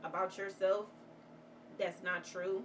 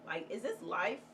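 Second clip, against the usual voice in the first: despairing at work. Retold or imitated. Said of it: "'cause I'm just like".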